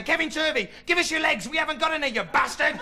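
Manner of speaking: lightly mock the menacing slugs; lightly voiced giant slugs.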